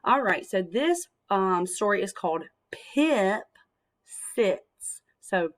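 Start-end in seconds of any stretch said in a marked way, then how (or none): 4.3-5.0 Sits with the short i stretched out; sounding out the i. Shown as a demonstration. Teacher sounding out the word for kids, slowly. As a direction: lean on the vowel in Sits. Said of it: "We hear the I, I sound in there".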